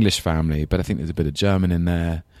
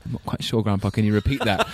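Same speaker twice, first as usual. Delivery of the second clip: puzzled, laughing; 3 semitones higher than usual. Retold or imitated. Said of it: "he'd be like".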